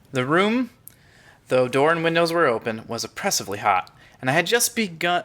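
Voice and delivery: measured storytelling read over music; story narration. Acted. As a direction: read the opening of a ghost story calmly. Reads the horror story aloud.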